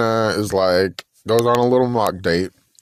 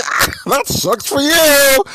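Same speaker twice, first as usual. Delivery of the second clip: higher, slow sarcastic sympathy; mock pity; 4 dB louder, slower than usual. Girl on date mocks his boring answer, sarcastic. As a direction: pretend to feel sorry for him, dripping sarcasm.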